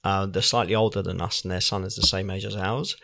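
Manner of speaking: low murmur sinking into a whisper; hushed confiding. Real, not acted. Dad gossiping about neighbours' sleeping habits, hushed to a whisper. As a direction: drop your voice as if telling a secret. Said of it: "no need to whisper".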